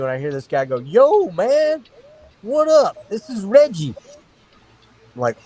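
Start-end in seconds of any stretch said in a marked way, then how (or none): 0.8-3.9 stranger's voice. Retold or imitated. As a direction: play the stranger high and breezy. Stranger on brother's phone.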